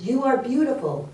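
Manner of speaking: acted voice answering from afar; echoing voice. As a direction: sing the praise back like an echo. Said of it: "And the voice says".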